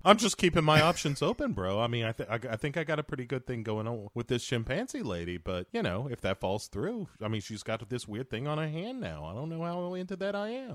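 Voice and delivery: casual, self-justifying bro voice; bro impression. Riffing as the movie hero, casual bro impression. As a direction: play a noncommittal bro weighing options.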